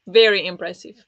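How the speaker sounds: really mean the praise; a firm, impressed compliment; emphatic praise. Real, not acted. Praising a fast reader.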